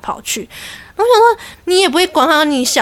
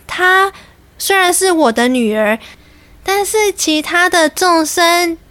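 serene nun mother; 4 semitones higher than usual. Retold or imitated. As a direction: answer graciously like a devout nun. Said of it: "她就说".

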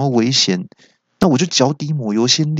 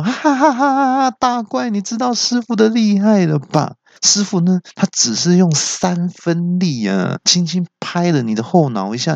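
high laughing taunt, settling toward normal; laughing and gloating; 6 semitones higher than usual. Acted. The kid laughing at the fallen monster, high gloating laugh. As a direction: laugh hard then gloat at him. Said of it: "那我听到就大笑说".

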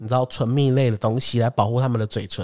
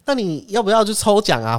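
high, eager offer; mock salesman's cheerful offer; salesman pitch; 8 semitones higher than usual. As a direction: mimic the hawker's lure. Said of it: "然后他说".

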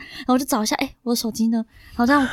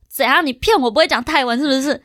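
稍微大声一点的假装质问; 半开玩笑地回呛司机; 模仿生气质问. Retold or imitated. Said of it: "然后那时候就很气". (对着司机模仿生气回呛，略响)

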